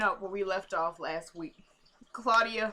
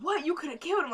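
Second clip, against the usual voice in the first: higher-pitched mock concern; feigned concern; 5 semitones higher, faster than usual. Imitating Natalie reacting to the shooting, feigned concern. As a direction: act as if you care, half-heartedly. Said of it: "trying to act like she actually cared".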